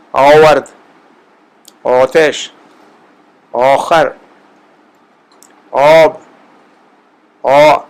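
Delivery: آورد آتش آخر آب with the long aa stretched and rounded toward o; slow, careful Persian vowel drill; drawn-out Persian aa. Shown as a demonstration. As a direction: stretch the آ of each word, leaning to o. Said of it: "اس کو ذرا کھینچ کر".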